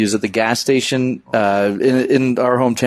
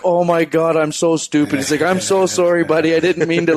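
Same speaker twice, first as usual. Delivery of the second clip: laughing mock apology; 6 semitones higher than usual. Stranger retold, embarrassed apology.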